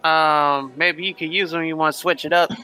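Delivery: Lightning Red voice. Acted. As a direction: slyly offer a better idea. Red pitches his own names.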